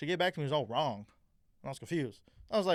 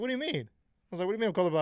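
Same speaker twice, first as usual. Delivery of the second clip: put-on higher, a shocked kid hearing he's colorblind; retold disbelief; 5 semitones higher, 3 dB louder, faster than usual. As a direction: act out the baffled teen, pitch jumping up.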